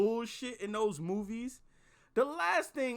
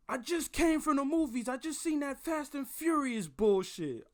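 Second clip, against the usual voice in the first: higher, worked-up retold rant; livid friend; 5 semitones higher than usual. Livid friend calling straight from the movies, angry ranting. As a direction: imitate a friend already at a hundred. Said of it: "He was on a hundred on the pickup".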